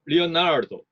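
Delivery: 리오나르도 with stress on 나; 리오나르도 said weak, STRONG, weak. Shown as a demonstration. Teacher demonstrating weak-strong-weak stress on 리오나르도. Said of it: "약강약으로 하면".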